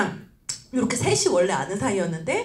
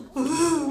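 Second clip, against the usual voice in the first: higher-pitched comic wail; mock sobbing; 5 semitones higher than usual. Upline after hanging up on partner, mock tearful wail. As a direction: imitate angry crying, half laughing. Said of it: "막 울고 막 분노의 눈물".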